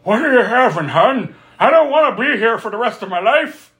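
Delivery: high mock waitress voice. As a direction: play a bored waitress calling you hun. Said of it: "She's like".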